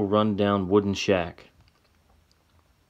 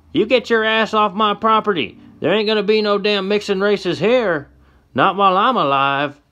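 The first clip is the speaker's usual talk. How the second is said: put-on very high, loud old man's yell; furious old man yelling; 12 semitones higher, 6 dB louder than usual. Old man drives the couple off his property, yelling in fury. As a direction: scream them off the land.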